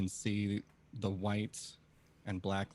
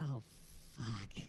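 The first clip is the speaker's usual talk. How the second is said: muttered half under breath, quieter; 3 semitones higher, 8 dB quieter than usual. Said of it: "says something with just slightly under her breath".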